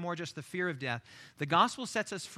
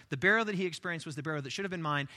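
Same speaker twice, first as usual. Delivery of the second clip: brisk recited declaration; fast, fluent restatement; quick recap; 2 semitones lower, faster than usual. Acted. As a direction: run through the confession quickly. Same declaration recapped at speed.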